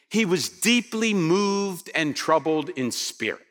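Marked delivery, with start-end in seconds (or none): 0.5-1.9 "deeply moved" drawn out slowly; stress on deeply moved. Shown as a demonstration. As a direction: read with slow weight on "deeply moved". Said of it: "I'll emphasize the words I'm looking for".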